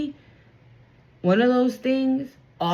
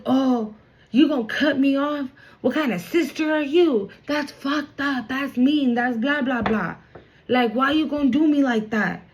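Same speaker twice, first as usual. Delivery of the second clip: higher, whiny guilt-trip with a crying edge; imitating a tearful brother complaining; hurt sibling whining; 4 semitones higher than usual. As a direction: play the wounded brother laying on guilt. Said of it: "maybe this is how this person feels".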